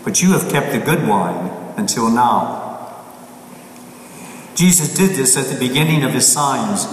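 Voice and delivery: measured, solemn scripture reading; gospel reading. Acted. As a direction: proclaim it from the pulpit. Priest reads the Gospel aloud.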